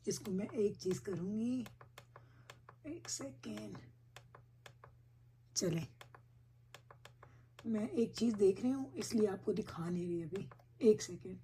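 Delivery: hushed, absent-minded aside; preoccupied murmur. Real, not acted. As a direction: talk quietly while busy with a fiddly task. Busy setting up the projector.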